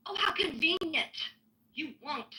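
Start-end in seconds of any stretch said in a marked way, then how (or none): 0.1-1.2 dry, sarcastic "how convenient"; biting sarcasm at an opponent. Real, not acted. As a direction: sneer it with mock surprise. Sarcastic jab at Pepe.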